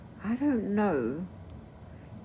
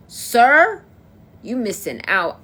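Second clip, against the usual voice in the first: excited call-out; 5 semitones higher, 10 dB louder, slower than usual. Real, not acted.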